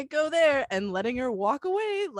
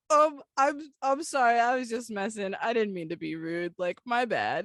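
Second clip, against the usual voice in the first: backpedaling hard. Retold or imitated. Apologizing to a stranger after a joke misfired, backpedaling. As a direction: backpedal hard, pitch sinking as you go. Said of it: "I am backpedaling so hard".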